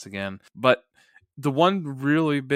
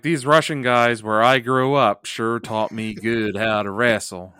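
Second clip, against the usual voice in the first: lightly voiced mock wrestler, louder than usual; unconvincing fake Russian; 6 dB louder than usual. Co-host joins in mocking the wrestler, unconvincing Russian act. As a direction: play a badly faked Russian bragging. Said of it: "He's the most unconvincing Russian ever".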